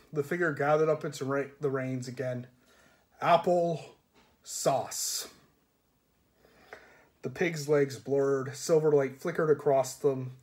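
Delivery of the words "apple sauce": magic command. Acted.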